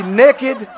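"naked" as "nekkid"; short e in "naked", Arkansas-style; Arkansas pronunciation. Shown as a demonstration. Preacher repeating the joke, "naked" said as "nekkid". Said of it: "what did it say in Arkansas?".

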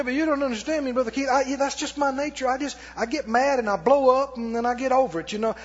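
a touch of a whiny church member; imitating a congregant. Preacher mimicking a member excusing his temper, lightly whiny. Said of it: "I'm gonna say".

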